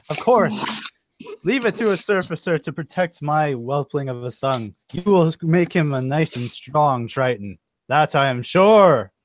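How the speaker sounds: a hint of a proud sea king; grand, hearty royal voice; booming king voice. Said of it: "he's like".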